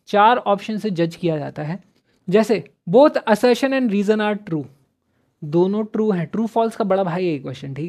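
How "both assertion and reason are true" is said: slow reading. Shown as a demonstration. Reads out option slowly.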